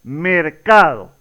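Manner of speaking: mercado said slowly, stress on ca; slow model reading of mercado, CA stressed; mercado, slow and clear; spoken demo word. Shown as a demonstration. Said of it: "la pronunciamos la palabra en voz alta".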